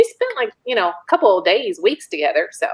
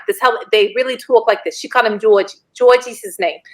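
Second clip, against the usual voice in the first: imitating a Brooklyn couple's accent; New York accent. Speaker showing how a New York couple talked, imitated accent. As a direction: put on a New York way of talking. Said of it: "they talk like this".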